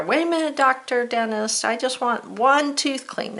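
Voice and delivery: a high, mock-pleading patient at the dentist; silly patient. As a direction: play the fussy patient asking for one tooth. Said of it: "That would just be silly".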